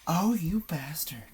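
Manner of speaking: whispered shock. Real, not acted. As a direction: breathe it out under your breath. Reacting to a scary clip.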